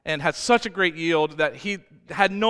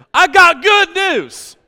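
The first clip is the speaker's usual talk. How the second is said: laughing; 12 semitones higher, 13 dB louder, slower than usual. Real, not acted. Laughs into the good news.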